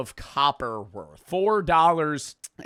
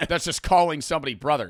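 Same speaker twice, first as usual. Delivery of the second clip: ordinary talk, nothing marked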